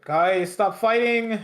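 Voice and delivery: hammed-up peacemaker yelling at arguing teammates; mock pleading yell. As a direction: Solo begging Jacob and his partner to stop arguing, mock loud plea. Solo voiced breaking up fight.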